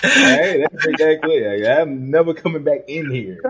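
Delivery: laughing insistence. Real, not acted.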